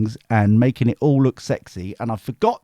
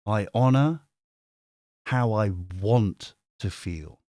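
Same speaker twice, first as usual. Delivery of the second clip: slower, softer repeat of the affirmation; 5 semitones lower, 4 dB quieter than usual. Shown as a demonstration. Streamer repeating the affirmation to viewers, softer and slower. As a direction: let it settle gently, softer and slower. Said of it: "And the final one".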